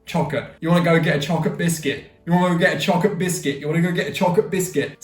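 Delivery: fast, slurred cockney, chocolate as "chocka"; mock cockney with swallowed consonants; cockney chav accent. Shown as a demonstration. Vlogger mocking chavs asking for biscuits, cockney accent. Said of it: "the straight up chavs and the cockneys".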